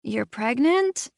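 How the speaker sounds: slow, drowsy half-asleep voice; just woken up, slow. A narrator's reading. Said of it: "sounding half asleep".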